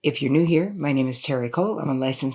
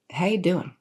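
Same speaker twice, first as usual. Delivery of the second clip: breezy, run-together greeting; higher-pitched, offhand how-you-doing; casual greeting; 4 semitones higher than usual. Shown as a demonstration. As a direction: toss it off as a quick, casual check-in. Casual greeting, then meant in earnest.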